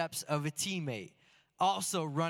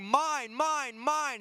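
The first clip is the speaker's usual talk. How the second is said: calling for the ball, a little higher; half-shouted mine, mine in a raised voice; mild mock yell; 7 semitones higher, 4 dB louder, much slower than usual. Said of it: "I remember yelling".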